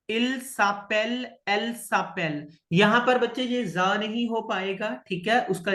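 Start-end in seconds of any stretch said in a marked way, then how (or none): 0.1-2.5 इल सापेल, एल सापेल with s carried onto सापेल; linked s sound. Shown as a demonstration. Teacher modelling the linked s for students. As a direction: link with an s: इल सापेल. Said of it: "यहाँ पर ये हो जाएगा इल".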